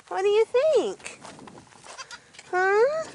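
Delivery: very high, cooing question to a goat; high playful question to Zoe. Real, not acted. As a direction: tease the doe gently.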